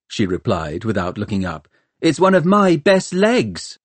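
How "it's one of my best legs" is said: high-pitched, pointed comeback; tart retort. A narrator's reading. Hester retorts as she bandages her leg, tart. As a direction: throw it back at him, pitched up.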